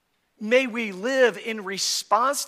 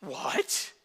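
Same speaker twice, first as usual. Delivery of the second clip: whispered what; 5 semitones lower, 5 dB quieter than usual. Retold or imitated. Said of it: "boy's reply".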